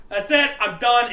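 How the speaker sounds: declared loudly, fed up; retold exasperation. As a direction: slam it shut, fed up. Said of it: "I'm like".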